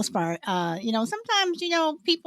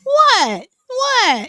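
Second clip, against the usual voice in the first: surprised what; 9 semitones higher, 7 dB louder than usual. Real, not acted. Reacting in surprise.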